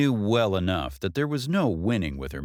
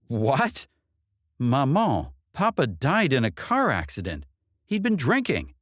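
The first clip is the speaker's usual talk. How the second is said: shocked; 5 semitones higher than usual. Acted. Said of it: "Shocked by the accusation".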